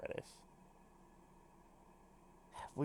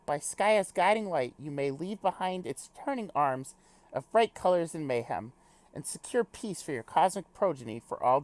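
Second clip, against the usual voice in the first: formal speech, lightly British; little British accent. Acted. Character reassures friend before a departure, lightly British formal voice. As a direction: give a stately pep talk with a hint of British. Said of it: "do a little British accent".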